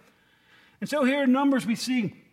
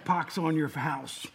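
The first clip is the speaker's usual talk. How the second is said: mock construction rant. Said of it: "It's more like".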